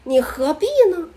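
high, loud, laughing plea; the teacher laughing at her anger. Retold or imitated. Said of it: "高老师说". (高老师边笑边劝)

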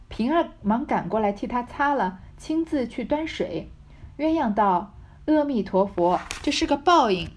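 抑扬起伏地朗读古典小说; 带一点角色对白感地念故事; 小说朗读. A narrator's reading. Reads the novel with dialogue. (生动的小说朗读腔)

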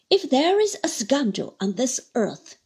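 loud, furious denunciation; vehement outburst. Acted. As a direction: hurl it at him. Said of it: "breaking out again with utmost vehemence".

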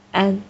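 安 hummed out through the nasal cavity; nasal vowel demo. Shown as a demonstration. Teacher models the new sound for students, nasal vowel. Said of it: "会有一种鼻音".

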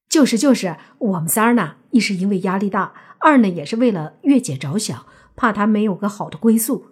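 lightly voiced flatterer, lively and emphatic; ingratiating brother. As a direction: eagerly chime in with excuses. Second brother joins the apology.

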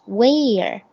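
Where with a clear curled r at the end; r-coloured where. Shown as a demonstration. Teacher modelling the r-coloured Where for students. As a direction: stretch the er of Where, tongue curled back. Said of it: "where那个儿音发得很好".

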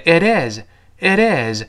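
"it is" run together, the t softened to a d; linked reading. Shown as a demonstration. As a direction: slowly link "it is" as one word, like "idis". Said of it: "it和is连在一块儿". (连读 it is，t 浊化成 d)

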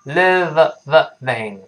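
"living" broken up to show the V; "living" with the V isolated and repeated; teeth-on-lip V. Shown as a demonstration. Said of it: "上牙触下唇".

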